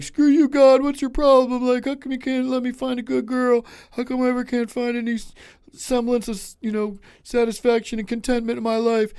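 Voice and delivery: mock furious rant at God; yelling at God. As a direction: rail at the sky, hammed up. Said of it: "If I ever get mad and start yelling at God".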